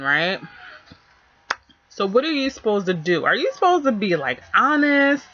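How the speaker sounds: shaky voice from a bumpy ride; talking while being jostled; on a bumpy road. Real, not acted. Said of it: "I'm sorry for the shaking".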